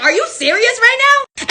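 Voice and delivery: slow, high disbelief; stunned at the thrown bill; incredulous. Retold or imitated. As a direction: stretch out the disbelief.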